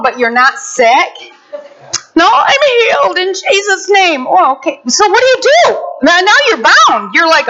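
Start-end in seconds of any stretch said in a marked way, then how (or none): 2.1-4.3 insistent protest. Pretend. Mocking a sick man's denial.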